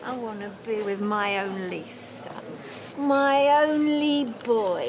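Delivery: long-drawn tipsy lament; maudlin drunken plea. Acted. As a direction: drag the words out in drunken self-pity. Drunk mother wails for her son.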